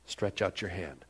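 soft, low, quiet order; quiet, tender version of the command; gentle command. Acted. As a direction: say it gently, almost under the breath. Same command said softly.

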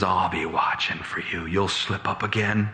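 lightly voiced low warning; menacing bailiff. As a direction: warn him you will be lying in wait. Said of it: "he looks at me and he says".

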